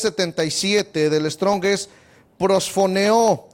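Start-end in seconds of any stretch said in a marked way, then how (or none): 2.4-3.5 "prosfoneo" stressed on its second O. Shown as a demonstration. Teacher giving a Greek word, "prosfoneo" stressed on the second O. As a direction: put the weight on the second O of "prosfoneo". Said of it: "acento en la O, en la segunda O".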